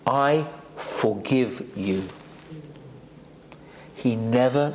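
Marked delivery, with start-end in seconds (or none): 0.1-2.0 slow, soft, heartfelt "I forgive you"; a sincere, drawn-out "I forgive you"; tender i forgive you. Shown as a demonstration. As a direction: say "I forgive you" slowly and gently, as if it costs you. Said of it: "some of the hardest words to say".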